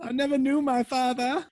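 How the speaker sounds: high, squealed through laughter; real high-pitched laughing fit; laughing hard. Real, not acted. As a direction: barely get it out for laughing. Joking through laughter about absent father.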